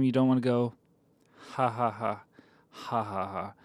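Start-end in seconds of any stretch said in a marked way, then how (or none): 1.5-3.5 saying ha flatly, not laughing; spoken ha ha. Shown as a demonstration. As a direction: read out ha ha word by word. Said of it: "you don't sound like you're genuinely laughing".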